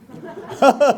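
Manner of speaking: short burst of loud, high laughter. Real, not acted. Preacher amused by the audience's answer, laughing. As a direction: break out laughing.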